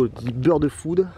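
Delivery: put-on bird food in a slow, jokey English accent; mock English accent. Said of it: "avec mon accent anglais". (accent anglais pour rire sur bird food)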